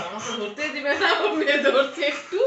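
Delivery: light laughter through the words; amused, giggling complaint; chuckling aside; laughing. Real, not acted. Laughing at the jealous pet.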